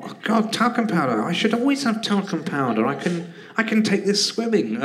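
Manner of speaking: high, eager, delighted inner voice; thrilled self-quote. Retold or imitated. Recalling a gift idea, excitedly delighted. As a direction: gush over a dull present as if it's a treasure. Excited thought about a present.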